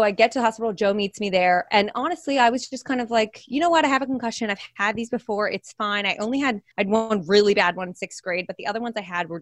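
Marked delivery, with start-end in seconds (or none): 3.5-6.1 shrugging it off. Retold or imitated. Brushing off the concussion.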